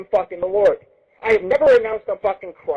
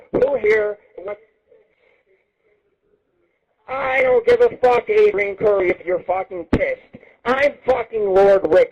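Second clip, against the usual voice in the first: slow boast; slower than usual. Real, not acted. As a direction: drag out each word like a bragging king. Boastful slow challenge to rival.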